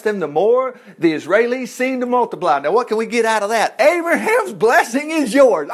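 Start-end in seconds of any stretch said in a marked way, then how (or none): 3.8-5.7 high, drawn-out proclamation; exultant proclamation. Real, not acted. Exclaims the lesson's payoff to congregation.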